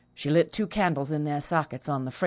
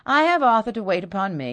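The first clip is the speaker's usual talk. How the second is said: good-humoured; 4 semitones higher, 5 dB louder than usual. Acted. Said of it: "said Perdita good-humouredly".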